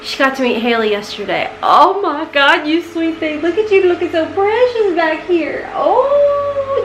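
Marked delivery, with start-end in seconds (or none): 1.6-6.8 high sing-song pet voice; cooing to the cat to come back. Real, not acted. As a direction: coo up high at the kitty.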